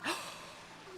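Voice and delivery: high, quick gasp; startled gasp. Real, not acted. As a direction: gasp at a sudden sight. Shock at seagulls arriving.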